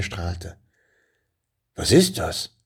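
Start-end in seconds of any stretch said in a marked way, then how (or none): 1.7-2.6 überrascht. A narrator's reading. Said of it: "fragte der Drache überrascht".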